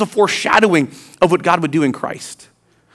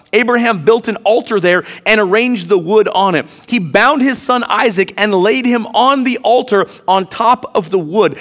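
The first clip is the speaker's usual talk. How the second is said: usual speaking voice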